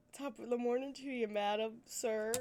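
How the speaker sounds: stock Irish greeting, lightly put on; attempted Irish accent. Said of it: "I can't do an Irish accent".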